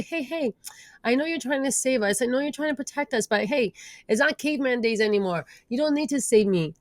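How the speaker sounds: calm the inner critic like a frightened friend; reassuring self-talk. Retold or imitated. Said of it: "the more we can say".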